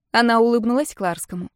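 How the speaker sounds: usual speaking voice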